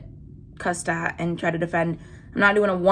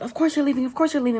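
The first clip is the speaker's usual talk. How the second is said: mocking sneer; 4 semitones higher, much faster than usual. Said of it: "they're like".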